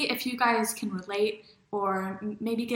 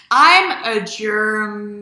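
cute germ voice; 11 dB louder, much slower than usual. Pretend. Playfully voicing a germ.

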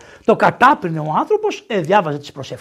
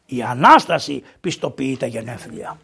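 ordinary talk

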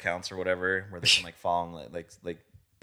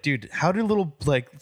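high laughing voice; 6 semitones higher than usual. Retold or imitated. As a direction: laugh through it. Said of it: "I'd be like".

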